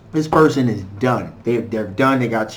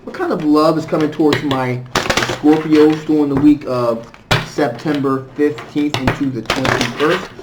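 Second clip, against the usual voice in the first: muffled. Real, not acted. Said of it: "If I sound a little bit muffled".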